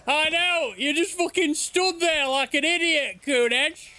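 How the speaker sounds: high, excited scolding through laughter; excited teasing. Real, not acted. Streamer teasing the companion who froze, high and excited. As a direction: rib him for standing there like an idiot.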